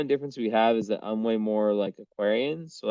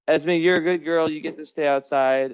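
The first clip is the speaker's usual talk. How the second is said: high pet praise; praising cat; 5 semitones higher, 3 dB louder than usual. Real, not acted. Owner rewarding calm Esme, high pet praise.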